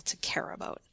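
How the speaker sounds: whispered, barely there. Shown as a demonstration. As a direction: drop to a whisper. Demo of caring about words.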